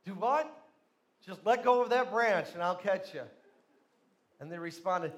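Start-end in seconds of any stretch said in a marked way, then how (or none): 0.1-0.5 raised, incredulous question; loud disbelief. Retold or imitated. Dangling man cannot believe God's instruction, loudly incredulous. Climber asks again, more incredulous. 1.3-3.2 loud, firm voice of God; insistent command. Retold or imitated. God insists the man release the branch, loud and firm.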